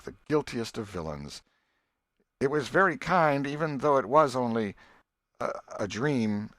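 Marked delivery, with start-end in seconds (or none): 2.4-6.5 put-on sarcastic boy, slowing at the end; a jealous brother needling; Sid voiced. Sid sneers at tale.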